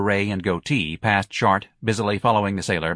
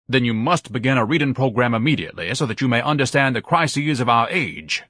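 higher, mildly solemn instruction; 4 semitones higher than usual. Acted. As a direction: prescribe reading with some gravity. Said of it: "Ignatius said solemnly".

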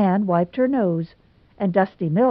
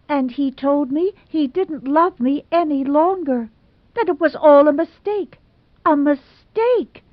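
put-on higher, theatrical lament of a jilted girl; dramatic Hazel; 7 semitones higher, 3 dB louder than usual. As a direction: overplay the wounded romantic heroine. Hazel's melodramatic speech.

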